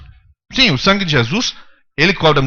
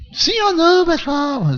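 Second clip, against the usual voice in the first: much higher mock preacher voice asking yes or no; imitating Edir Macedo; 12 semitones higher, slower than usual. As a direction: ham up a famous televangelist's call. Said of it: "que fala assim é o Edir Macedo".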